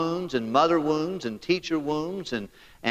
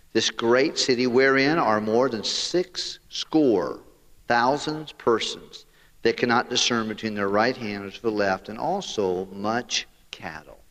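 voice of God; 4 semitones lower than usual. Retold or imitated. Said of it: "Then said the Lord".

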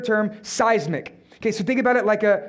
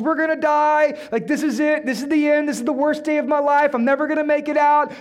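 higher-pitched imitation of panicking disciples; mock panicked yell; 5 semitones higher than usual. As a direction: act out a mild, hammed-up panic. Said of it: "screaming at the top of their lungs".

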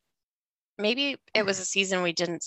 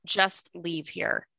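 awed murmur; 6 dB quieter, much slower than usual. Real, not acted. Repeats the ghost words in shock.

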